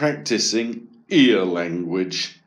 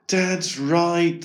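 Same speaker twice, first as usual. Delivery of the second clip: put-on higher, mildly sad boy's thought; 6 semitones higher than usual. A narrator's reading. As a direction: concede it with understated sadness. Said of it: "thought Eric sadly".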